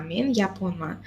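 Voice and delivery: usual speaking voice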